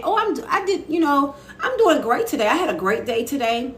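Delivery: bright high put-on cheer, laughing; chirpy mock reply. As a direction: bubble up like a too-happy small-talk answer. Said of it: "instead of saying".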